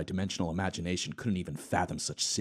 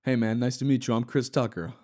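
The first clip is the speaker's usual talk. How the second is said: louder, higher friendly greeting; Chris Tucker voice; 5 semitones higher, 4 dB louder than usual. Acted. Chris Tucker greeting Hawking, louder and higher. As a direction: greet him like an eager buddy. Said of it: "It gets worse".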